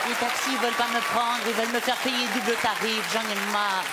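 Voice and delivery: fussy old Pied-Noir lady voice, lightly put on; Madame Sarfati. Madame Sarfati grumbling to the TV host: old lady character voice. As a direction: play the indignant grandmother complaining. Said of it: "c'est Madame Sarfati".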